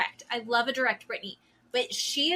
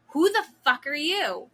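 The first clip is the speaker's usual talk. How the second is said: mean; 4 semitones higher, 4 dB louder than usual. Retold or imitated. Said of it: "And she's mean".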